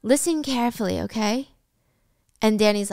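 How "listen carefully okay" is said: quietly steady, a touch softer; understated calm warning; mild calm. Retold or imitated. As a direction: settle him down without raising the voice. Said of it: "Wendy says calmly".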